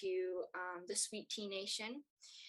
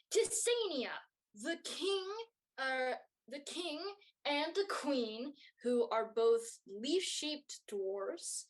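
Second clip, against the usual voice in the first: royal announcer; 5 semitones higher, slower than usual. Acted. Royal announcer introduces Tisania's parents.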